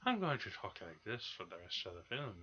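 soft, goofy mock Irish accent; imitation of a hammy Irish accent; Orson Welles. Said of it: "he puts on an Irish accent".

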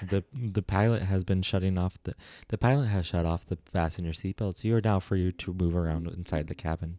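lightly voiced in-flight announcement; steady, polite cabin crew voice; flight attendant. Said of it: "You sound like a flight attendant".

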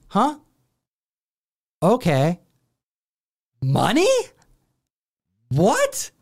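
high, puzzled questions; grandma in disbelief. Retold or imitated. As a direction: sound baffled on the phone.

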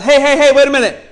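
high, loud call across the lot; hollering. Retold or imitated. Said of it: "hollers out".

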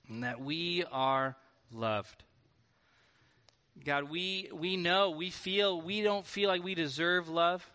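measured praying voice with long pauses; earnest prayer. Real, not acted. Leads a closing prayer.

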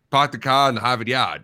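mock Boston accent; exaggerated Boston accent for laughs. Shown as a demonstration. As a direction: put on a joking Boston accent. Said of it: "but with the Boston accent".

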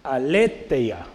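Aletheia read out at half speed; slow reading out. Shown as a demonstration. Preacher reading a written Greek word to the class, slowly. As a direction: sound out Aletheia slowly and carefully. Después la leo.

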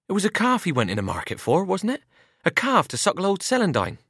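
put-on a young farm lad fussing over a soaked horse; eager boy Albert. A narrator's reading. Albert pleading with his mother over the wet horse, eager boy's voice.

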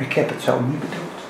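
hushed, loving voice of God; God speaking tenderly. Retold or imitated. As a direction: gently comfort a loved child as God. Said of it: "God ook zegt".

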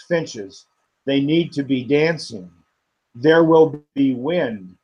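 measured, unhurried reading of a prayer poem; poetry reading. Acted. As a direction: lift each line gently, let pauses breathe. Poet reads second poem aloud.

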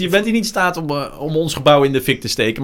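high, loud, amused disbelief; mock astonishment. Journalist realising the angry commenter is harmless, loudly astonished. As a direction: act out an incredulous realisation, pitched high.

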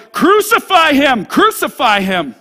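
acted mob shout, drawn out; crying out. Chief priests and officers demanding execution, crying out. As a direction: cry it out like a baying crowd. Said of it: "they cried out".

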